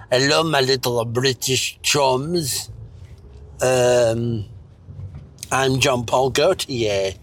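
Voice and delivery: slow mock French host; lightly voiced Eurotrash presenter; French accent. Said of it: "watching a lot of Euro trash".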